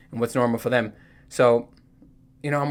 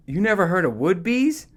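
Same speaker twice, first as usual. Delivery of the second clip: incredulous coworker; 5 semitones higher than usual. Retold or imitated.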